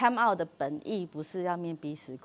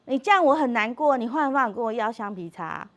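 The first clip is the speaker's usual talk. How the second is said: imitating daughter firmly; 4 semitones higher, 6 dB louder than usual. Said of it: "我女儿就跟她说".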